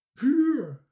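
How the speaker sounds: terrified high, loud scream; Bange Toontje. A narrator's reading. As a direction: shriek the alarm, drawn out and high. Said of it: "gilde Bange Toontje".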